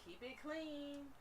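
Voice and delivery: high, slow "Keep it clean" drawn out; cheerful high singsong; sing-song catchphrase. Shown as a demonstration.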